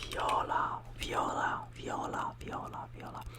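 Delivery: viola said the Italian way, vee-OH-la. Shown as a demonstration. Teacher modelling viola for learners. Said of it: "for purple we say".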